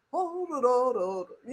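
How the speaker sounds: Impression of a rapper. Acted. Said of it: "the rapper was just".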